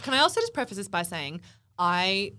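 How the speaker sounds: slightly husky, strained from singing; a touch of hoarseness after belting in the car. Real, not acted. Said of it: "My voice is actually a little bit husky".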